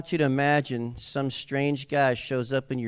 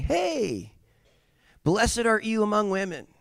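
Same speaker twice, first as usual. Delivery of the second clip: mock angel greeting; 8 semitones higher than usual. Preacher playing the strange man in Mary's room, high and comic. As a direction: imitate an oddly cheery visitor. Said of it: "this strange man in her room saying".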